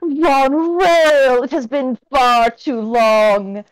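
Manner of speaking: a tiny flower man speaking up; tiny tinkling snowflake whisper. Acted. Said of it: "you hear a tiny little voice come from him".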